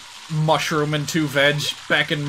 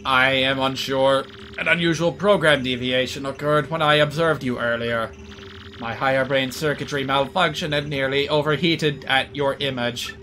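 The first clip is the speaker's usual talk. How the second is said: robot voice; 2 semitones lower than usual. Acted. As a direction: speak like a calm, polite machine. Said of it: "we have an actual computer character in this game".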